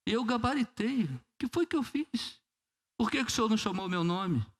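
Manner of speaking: voz bem mais aguda, chorosa e teatral; choramingo exagerado. Retold or imitated. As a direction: reclame com Deus num choro de brincadeira. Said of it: "Ele começou a chorar". (menino reprovado reclamando com Deus, chorão e agudo)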